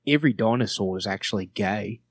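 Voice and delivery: improvised line in Australian; Australian accent. Shown as a demonstration. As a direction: declare it as an Australian. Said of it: "to say in Australia".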